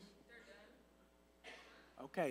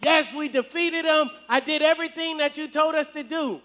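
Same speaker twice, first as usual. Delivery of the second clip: higher-pitched, pleased report of victory; happy boasting; 4 semitones higher than usual. Acted. Saul reports victory to Samuel, happy and boastful. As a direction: report the win proudly, voice lifted. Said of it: "Saul was happy".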